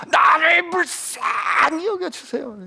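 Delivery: high, drawn-out strained yell; screaming plea. Acted. Beggar refuses to be hushed by the crowd, screamed high plea. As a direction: scream it out slowly, stretching the plea. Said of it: "악을 쓰는 거죠".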